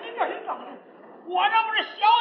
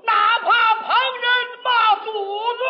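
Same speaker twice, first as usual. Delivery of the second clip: slow opera recitation; 2 semitones higher, slower than usual. Acted. Closing couplet, opera recitation.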